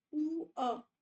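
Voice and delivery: पू अ said as two separate vowel sounds, pu then a; split into two vowels. Shown as a demonstration. Teacher splits पू अ into two vowels for students. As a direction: break पू अ into its two vowels slowly. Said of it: "दोनों की sound एक साथ आ रही है".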